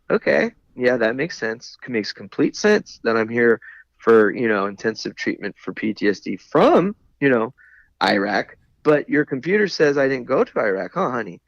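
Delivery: put-on mildly patronizing, as if to a child; a touch of talking down to a kid, half amused. To the clerk who doubts his deployment, lightly patronizing. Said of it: "talking to her kinda like a kid".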